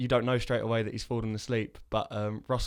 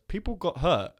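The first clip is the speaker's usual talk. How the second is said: higher-pitched mock indignation; retold comeback, pitched up in protest; indignant retort; 6 semitones higher, 4 dB louder than usual. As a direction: imitate an incredulous objection. Retelling a film character's indignant retort.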